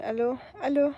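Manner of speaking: "Allô" with no H at the start; French dropped H. Shown as a demonstration. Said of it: "French can speak the H sound".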